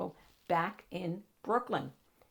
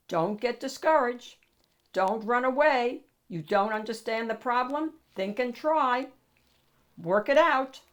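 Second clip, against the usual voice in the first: firm, louder fatherly pep talk; encouraging father; 4 semitones higher, 5 dB louder than usual. Acted. Father urging his son through homework, firm and encouraging. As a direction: push him gently but firmly to keep trying.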